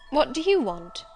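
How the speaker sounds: surprised. A narrator's reading. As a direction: ask it startled, with a lift in pitch. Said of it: "in a voice of surprise".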